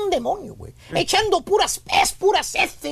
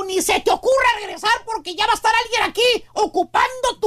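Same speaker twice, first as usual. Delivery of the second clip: angry wife; 3 semitones higher than usual. Retold or imitated. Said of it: "le dio la patada".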